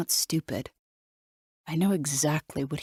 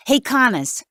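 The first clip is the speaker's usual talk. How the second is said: loud, high call across the house; 8 semitones higher, 5 dB louder than usual. A narrator's reading. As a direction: shout up at a colleague from a distance. Officer calls down from upstairs.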